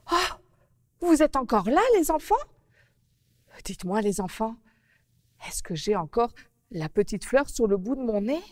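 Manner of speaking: put-on a little girl upset about the flower on her nose. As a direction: petite fille contrariée. Narrator plays Mimi Coquelicot.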